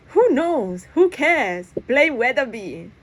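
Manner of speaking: high, loud dismissive shout. Acted. On the boat, shouting to Press over the wind. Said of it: "I shout".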